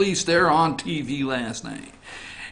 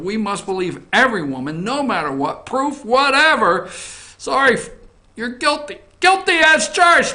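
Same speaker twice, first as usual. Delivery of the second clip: mocking verdict; 5 semitones higher than usual. Mocking Avenatti's standard.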